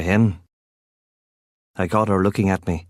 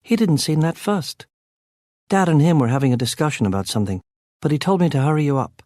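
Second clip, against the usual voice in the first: Kit's voice; 6 semitones higher, faster than usual. A narrator's reading. Kit voiced, higher than narrator.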